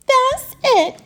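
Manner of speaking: high, loud outburst; exasperated cry. Acted. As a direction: cry it out, fed up. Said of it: "he cried".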